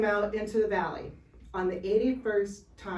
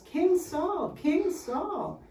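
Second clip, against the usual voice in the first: put-on little boy calling; 9 semitones higher, much slower than usual. Little boy tugging the king's clothes.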